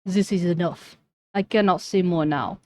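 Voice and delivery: put-on curt Russian accent. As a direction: shut it down in accent. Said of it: "Russian accent".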